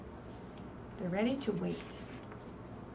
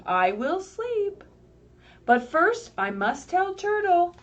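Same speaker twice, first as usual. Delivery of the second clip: higher, louder and slow Skunk; Skunk's voice; 8 semitones higher, 6 dB louder, slower than usual. Acted. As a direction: play Skunk eager to tell Turtle. Skunk's quoted line in story.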